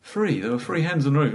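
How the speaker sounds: acted insistence, "three" as "free". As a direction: say "Three" with an F at the start. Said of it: "I can't say T H sounds".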